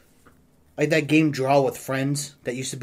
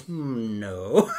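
imitated drunk denial. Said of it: "so you're just drinking".

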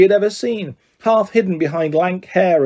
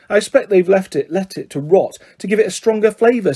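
knowing. Acted. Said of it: "said Hermione knowledgeably".

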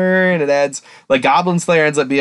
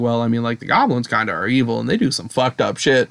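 lower-key, hesitant concession; retold hedging; 3 semitones lower, 3 dB quieter than usual. Critics conceding the goblins are evil, imitated hedging. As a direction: say it small, as a reluctant admission.

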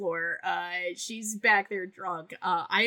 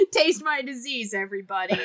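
laughing sign-off; 6 semitones higher, 6 dB louder than usual. Real, not acted. Sign-off callback joke.

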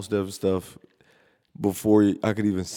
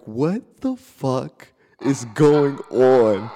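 shocked; 2 semitones higher, 4 dB louder, much slower than usual. Retold or imitated. Retold alarmed reaction.

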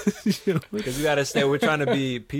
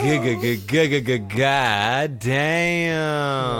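stammering awe; much slower than usual. Retold or imitated. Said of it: "I'd be like".

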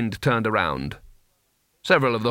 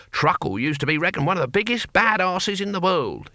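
put-on high-pitched old warrior voice; Cohen, old barbarian; 8 semitones higher than usual. A narrator's reading. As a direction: talk up an old comrade in a raised pitch.

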